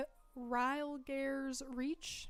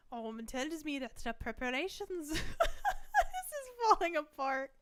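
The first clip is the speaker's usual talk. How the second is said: attempted Hungarian accent; 3 semitones higher than usual. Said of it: "Hungarian accent".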